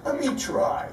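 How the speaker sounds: imitating an eager boy; little boy asking. Uncle recalls eight-year-old Mike volunteering, small eager voice. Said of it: "little Mike says".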